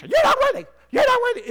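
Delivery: very high, loud parrot screech. Retold or imitated. Preacher mimics the friend's loud parrot, screeching. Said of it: "It's like a parrot".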